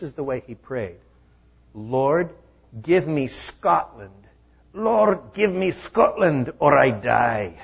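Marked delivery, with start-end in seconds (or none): 1.7-7.5 loud, slow Scottish prayer; impassioned Scottish accent, rising on the second Lord. Acted. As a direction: plead like a Scots preacher in a Scottish accent. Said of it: "I got to do the Scottish accent".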